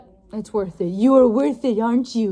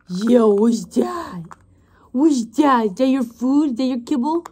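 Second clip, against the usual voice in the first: slow, drawn-out playful puppy talk; dog voice. Real, not acted. Owner teasing her puppy about its kibble, slow and playful. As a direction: tease the puppy about its food. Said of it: "my dog voice is just hilarious".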